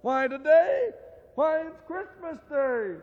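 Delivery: put-on high, loud voice of a street boy; boy's voice. The boy calling up to Scrooge, high and loud. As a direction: play the cheeky lad.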